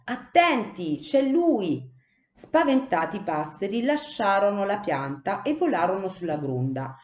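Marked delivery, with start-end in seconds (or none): 0.0-1.9 high, urgent warning cry; shouted warning. A narrator's reading. Cipì warning the sparrows of the man, high urgent shout. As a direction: alarm the flock that the man is there. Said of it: "Cipì gridò".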